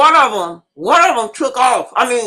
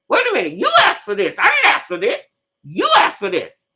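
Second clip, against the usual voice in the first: retold scolding; 2 semitones higher than usual. Retelling confronting nervous man.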